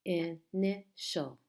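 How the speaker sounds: "Initial" slowly split into i, ni, tial; teacher's slow breakdown of "Initial"; syllable by syllable. Shown as a demonstration. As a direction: sound out "Initial" in three slow, separate beats. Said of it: "How many syllables in this word?".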